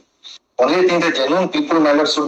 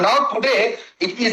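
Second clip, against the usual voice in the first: raised voice; 4 semitones higher than usual. Real, not acted. Counsel rebuked by judge for raising voice, heated. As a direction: pitch going up again. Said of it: "Again, your voice is going up".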